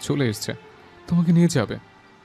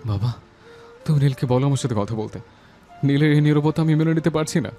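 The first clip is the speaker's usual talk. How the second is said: distraught pleading; 9 semitones lower, 6 dB louder than usual. Acted. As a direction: beg Father, breaking upward in grief. Bereaved son begs his father. (শোকে ব্যাকুল মিনতি)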